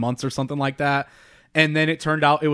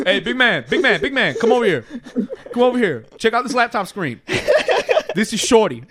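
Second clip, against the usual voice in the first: hammed-up bro voice; 6 semitones higher than usual. Pretending host Neve calls a dude over, hammed-up bro voice. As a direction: play the over-friendly host, laughing through it. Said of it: "Neve should definitely start calling dudes big man".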